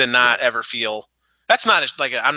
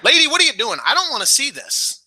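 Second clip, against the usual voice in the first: incredulous quote; 8 semitones higher than usual. Retold or imitated. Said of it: "I'm like".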